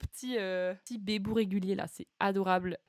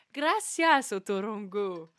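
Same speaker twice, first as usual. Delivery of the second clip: Spanish accent; 3 semitones lower, 3 dB louder, slower than usual. Shown as a demonstration. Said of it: "juger de mon accent espagnol".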